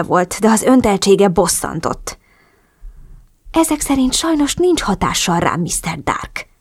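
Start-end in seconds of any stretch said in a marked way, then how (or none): 3.5-6.5 snapping back. A narrator's reading. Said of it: "vágtam vissza".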